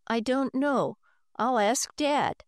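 worried. Acted. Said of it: "Henry was worried".

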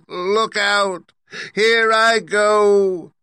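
high, loud witch voice, slowing to a drawn-out final cry; a wicked witch confessing as she dissolves; melting witch's lament. Acted. Witch's last speech while melting.

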